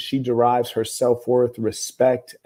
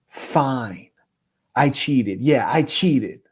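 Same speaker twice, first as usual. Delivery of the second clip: slow, lightly voiced monotone confession; deadpan, drawn-out admission; 2 semitones higher, much slower than usual. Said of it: "in a monotone voice".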